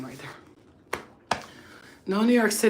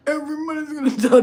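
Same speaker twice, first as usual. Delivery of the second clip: higher, louder mock warning; loud mock threat; 9 semitones higher, 7 dB louder than usual. Joking to viewers, loud mock threat. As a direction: shout the punchline playfully. Dark joke shouted.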